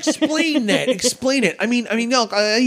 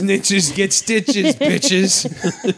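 put-on New York accent; much slower than usual. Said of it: "your New York accent for the week".

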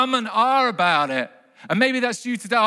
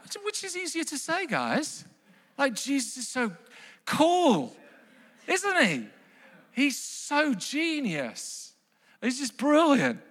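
awed marvel; 7 semitones higher, 3 dB quieter than usual. Real, not acted. Preacher marvelling at Jesus.

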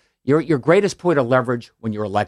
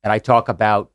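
Kennedy Boston accent impression. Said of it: "You do the accent well".

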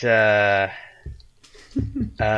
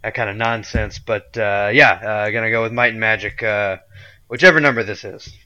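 Scalia ghost voice. Pretend. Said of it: "this is my ghost voice".

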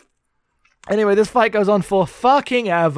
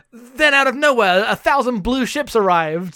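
dramatic reading; 5 semitones higher than usual. Retold or imitated. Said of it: "It does say".

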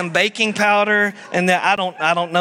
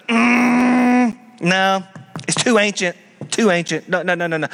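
dismissive skeptic; 2 semitones higher than usual. Retold or imitated. Preacher mimicking a skeptic dismissing old truth, mock scornful. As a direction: wave off the ancient text.

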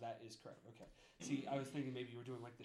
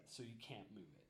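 whispered aside; 4 semitones lower, 11 dB quieter, faster than usual. Real, not acted. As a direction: drop to a whisper. GM describes bound prisoner.

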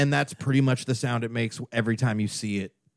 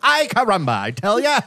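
cartoonish Spanish accent; 8 semitones higher, 4 dB louder than usual. Cartoon caricature continues.

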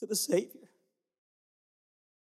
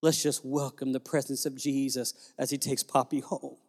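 tender comfort; 7 semitones lower, 3 dB quieter than usual. Retold or imitated. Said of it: "she'd say".

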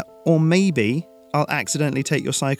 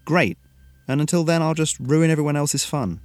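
higher, louder sarcastic complaint; bitter sarcasm; 6 semitones higher, 4 dB louder than usual. A narrator's reading. Frustrated pupil answering his teacher, sarcastic.

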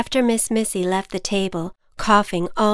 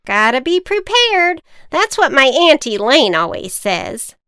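high, loud witch voice; proud witch; 6 semitones higher, 8 dB louder than usual. Acted.

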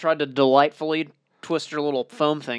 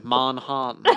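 deep British lord; 2 semitones lower, 3 dB quieter, slower than usual. Retold or imitated. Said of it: "Deep British lord".

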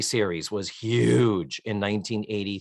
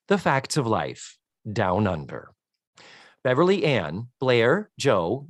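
synopsis read-out. Acted. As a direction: read it like a summary off the page. Reads the Wikipedia synopsis aloud.

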